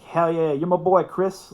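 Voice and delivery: high, loud cheering yell for a friend. Retold or imitated. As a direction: shout it like he just won the round. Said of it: "just yelling and cheering for him".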